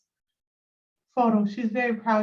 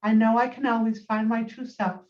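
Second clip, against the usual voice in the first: measured poetry reading with pauses between lines; poem recitation; 2 semitones lower than usual. Acted. Poet reading own poem to listeners on a call, measured recitation. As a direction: recite it line by line, letting each phrase settle.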